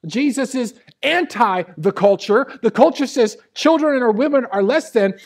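loud, high, driving sermon; full-force preaching. Real, not acted. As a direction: hammer each phrase out to the congregation.

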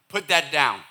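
firm, loud parental command; parent scolding. Acted. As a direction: order a small child sharply. Acted parent scolding a child.

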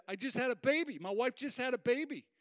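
high, gushing new-father announcement; retold joyful sob. New dad telling someone in the hallway, joyfully overcome. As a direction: imitate a dad overcome with joy. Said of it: "I'm sobbing, joyful sob".

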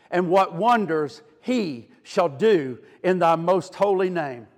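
measured prayer with spaces between phrases; retold prayer. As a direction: begin in full voice, sink gently toward the end. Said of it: "he cried".

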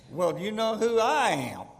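mock self-important retort, stressing I; turning the tables. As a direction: throw the question back at her, pitch swooping up on I. Usher turns the question back.

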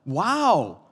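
high, loud mock-amazed remark; exaggerated voice of someone pointing out the obvious; astonished acquaintance. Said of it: "somebody came up and they're like".

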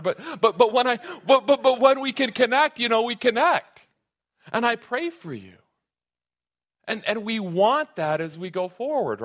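loud, high, fervent preaching; preaching at full force. Real, not acted. Pastor pleading with the church, loud and high. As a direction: lift it into a passionate appeal. Preacher building to passionate peak.

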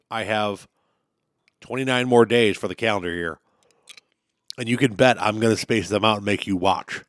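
chewing ice while talking; mouth full. Real, not acted. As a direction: talk around crunching ice. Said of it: "Sorry, I'm chewing on ice".

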